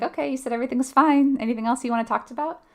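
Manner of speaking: mock brisk check-in, hurrying on at the end; breezy dismissal. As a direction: breeze by as if nothing is wrong. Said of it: "just blowing right by those nonverbal cues".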